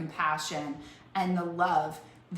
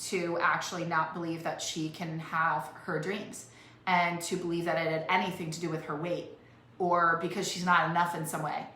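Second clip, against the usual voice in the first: ordinary talk, nothing marked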